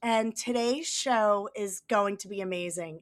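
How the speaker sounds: hoarse from a cold; scratchy, sick-sounding voice; raspy voice. Real, not acted. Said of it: "I have this raspy, sexy voice going on here".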